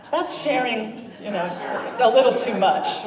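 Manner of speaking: laughing loudly at his own joke; amused groan at his own pun. Real, not acted. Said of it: "That's a groaner, I know".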